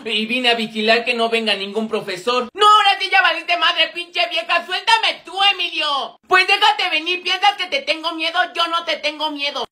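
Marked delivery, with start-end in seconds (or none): 2.5-9.7 acted schoolyard fury, pitched up; pelea furiosa. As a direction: defy a rival while being held back. Pelea actuada entre compañeras. (enojo de pleito escolar)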